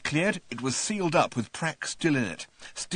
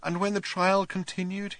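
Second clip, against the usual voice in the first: weeping whisper; 8 semitones higher than usual. A narrator's reading. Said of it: "he said in a weeping whisper".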